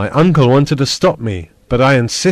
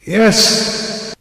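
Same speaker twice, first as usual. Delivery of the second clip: breathy whispered yes; barely able to answer; weakly; 8 semitones higher than usual. A narrator's reading. Injured Axel answers his uncle in a weak whisper. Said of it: "I answered weakly".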